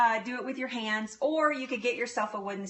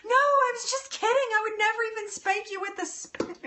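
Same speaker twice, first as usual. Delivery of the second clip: much higher, pleading and soothing at once; frantic reassurance; 12 semitones higher than usual. Retold or imitated. Mother soothing her tearful little girl, high and pleading. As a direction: hurry to comfort a crying child. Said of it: "she was like".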